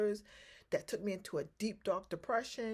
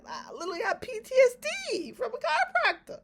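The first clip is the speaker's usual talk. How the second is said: exclaiming; 6 dB louder than usual. Real, not acted. Dramatic claim of trauma.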